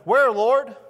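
loud, high, pleading call to the Lord; urgent cry. Acted. Disciples asking the Lord, a loud pleading cry. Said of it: "Here's what they say".

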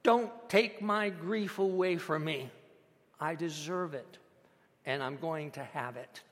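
understated defiant insistence; fire in voice. Retold or imitated. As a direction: stand your ground with controlled fire. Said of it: "with fire in her voice".

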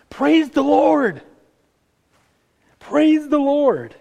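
high, loud and slow, drawn-out praise; ringing proclamation. Acted. Preacher to congregation, the psalm's opening cried out slow and loud. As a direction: call it out to the whole room.

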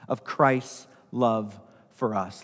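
"Christ's" drawn out very slowly with a falling end; slow right down on the last words; slow, weighty close. Shown as a demonstration. Pastor drives home the point to the congregation, slowly. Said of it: "Let me say that again".

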